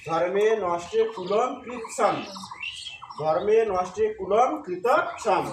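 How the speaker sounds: slow "ধর্মে নষ্টে কুলম কৃতচ্ছন" with "কুলম" ending in m; pronunciation demo. Shown as a demonstration. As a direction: recite slowly, careful on "কৃতচ্ছন". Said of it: "তাহলে কি হবে?". (ধীরে "ধর্মে নষ্টে কুলম কৃতচ্ছন")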